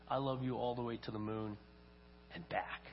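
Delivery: lightly voiced father, low and soft; tender bedtime father. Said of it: "as he's tucking his little boy in".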